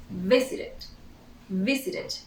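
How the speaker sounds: "Visited" with a very short "id" at the end; "Visited", final -ed as a brief extra syllable; short vowel ending. Shown as a demonstration. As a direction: model "Visited" carefully in three syllables. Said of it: "We add a very short".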